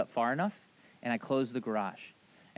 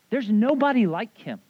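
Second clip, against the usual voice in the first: stern God; 7 semitones higher, 9 dB louder than usual. Retold or imitated. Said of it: "He's like".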